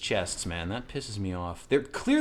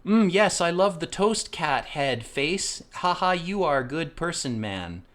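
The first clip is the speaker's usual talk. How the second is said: higher, slow, sing-song nonsense talk; lightly voiced tourist gibberish; mock foreign speaker; 7 semitones higher, slower than usual. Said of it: "In English would sound like this".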